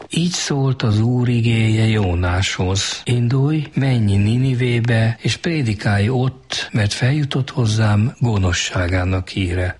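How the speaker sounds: slow, measured reading of God's word; retold pulpit recitation, drawn out; scripture proclamation. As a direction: proclaim the verse slowly, like a preacher at the pulpit. Recites the preacher's opening scripture.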